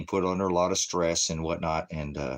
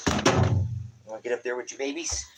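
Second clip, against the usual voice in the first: higher, quick, teasing question; quoted divine voice; 5 semitones higher than usual. Retold or imitated. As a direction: ask it lightly, in someone else's timbre. God's words quoted, said again.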